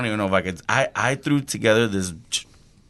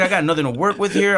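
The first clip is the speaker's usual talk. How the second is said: retold annoyance; 8 semitones higher than usual. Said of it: "I was getting pissed".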